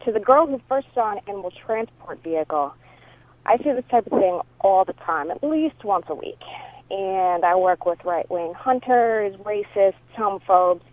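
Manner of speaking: voicemail over a phone line; phone recording; answering machine message. Real, not acted. This is from the caller.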